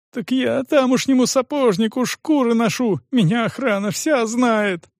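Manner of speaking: put-on high, pleading young voice; frightened cripple. Стефан оправдывается перед допросом, высоким испуганным голосом.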